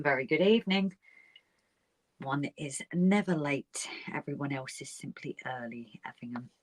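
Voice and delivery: a hint of a grand, unhurried gent; Effingham impression. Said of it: "Let's give these a quick Effingham".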